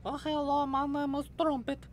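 very high seahorse voice with odd vowels; seahorse accent. Acted. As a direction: greet like a tiny, high-pitched seahorse. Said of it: "a seahorse's accent".

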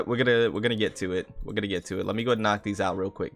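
ordinary talk, nothing marked

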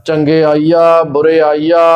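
ਚੰਗਿਆਈਆ ਬੁਰਿਆਈਆ ending in pure oral "aa"; no nasalisation. Shown as a demonstration. Teacher showing the correct reading, ਚੰਗਿਆਈਆ ਬੁਰਿਆਈਆ without nasal endings. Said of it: "ਬਿਨਾਂ ਬਿੰਦੀਆਂ ਤੋਂ ਹੀ".

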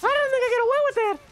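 very high, fast laughing line; high giggling. Real, not acted. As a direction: laugh through it. Laughing at lucky play.

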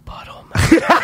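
put-on whispered like a naughty kid's secret; hushed, voiceless whisper. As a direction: imitate a child whispering a rude word. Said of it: "Max walked over and whispered".

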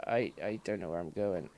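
fast, lost little whisper. Real, not acted. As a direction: whisper it to yourself, confused. Lost in the game.

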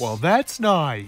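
slow, very low grandfather voice; grandpa. Acted. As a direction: drawl it as a deep-voiced grandpa.

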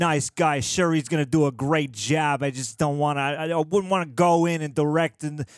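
lightly put-on Boston accent; Ben Affleck. Co-host as actor politely turning down the job, light Boston accent. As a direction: carry on the Boston actor impression. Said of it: "do your best Ben Affleck impression".

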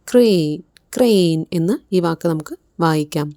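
ക്രെയിൻ with a kr blend and a long ay; pronunciation demo. Shown as a demonstration. Teacher shows students the kr blend in ക്രെയിൻ, clearly. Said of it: "കൃ എന്ന സൗണ്ടാണ് ഉണ്ടാകുന്നത്".

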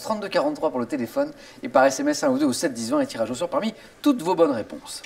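upbeat quiz host reading; game show host. Acted. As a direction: address viewers like a TV host. Host addresses viewers at home.

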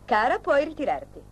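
affected, grand-lady dismissal; snobbish dismissal. Acted. Daughter demonstrating a society lady's tone to her father, snobbish. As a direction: show papa how a lady dismisses a maid. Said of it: "Si dice così".

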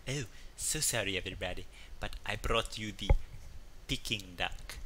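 hushed, half-whispered apology; sheepish waiter. Retold or imitated. Waiter apologizing to the couple, hushed. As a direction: admit the mix-up under your breath. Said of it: "He's like".

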